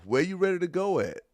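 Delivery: mock him for having nowhere to go; incredulous teasing; mocking disbelief. Real, not acted.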